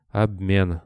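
usual speaking voice

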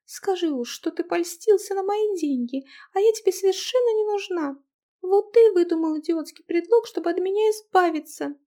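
put-on high, loud girl's angry blurt; angry outburst. Angry girl accusing her husband of wanting her money. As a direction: fling the words at him furiously. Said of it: "рассерженно выпалила девушка".

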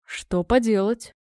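slow, resigned question; mildly resigned father; philosophical shrug. Acted. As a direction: shrug it off verbally, unhurried. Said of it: "философски развел руками отец".

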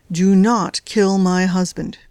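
slow, deliberate, each word weighted; slow stern warning. Acted. Wife warning the agent, slow and stern. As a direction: lay down the law slowly.

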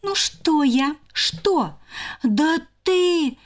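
high squabbling sister; bickering squirrel. Acted. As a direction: snap back at her sister.

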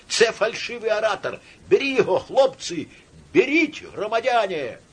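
high agitated calling; thin tenor shout. A narrator's reading. Tenor inciting citizens to grab the orator, shouting. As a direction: urge the lads on in a thin high voice. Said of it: "второй тонкий тенор".

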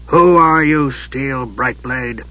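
Raistlin's voice. Acted. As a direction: hush it like a frail dark wizard.

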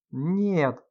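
cry out. A narrator's reading. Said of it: "вскрикнул Серёжа".

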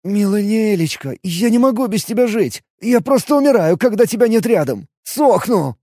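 mild near-tearful wailing; wailing lament. A narrator's reading. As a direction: Hank laments to his beloved, half-crying. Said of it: "чуть не плача, запричитал".

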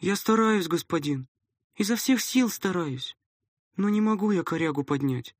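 put-on upset boy. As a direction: plead like a hurt kid.

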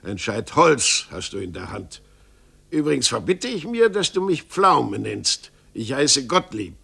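put-on grumpy old master, bristling and fast; lightly voiced old carpenter, indignant; offended carpenter. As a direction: snap back, wounded pride. Carpenter voice in read story.

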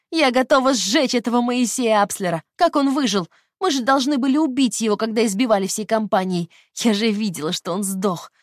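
put-on high, loud furious young woman; loud venomous rage; with anger. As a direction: spit out the hatred. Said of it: "со злостью ответила она".

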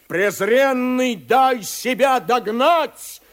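high, loud threatening yell; shouting. A narrator's reading. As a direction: bellow it at the enemy. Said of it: "кричит Фарлав".

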